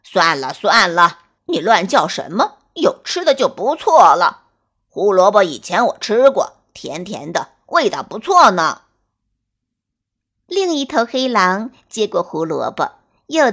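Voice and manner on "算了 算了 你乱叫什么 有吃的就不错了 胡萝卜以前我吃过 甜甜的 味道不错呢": lower, louder laid-back wolf; calm the other wolf down; easygoing wolf voice. Acted.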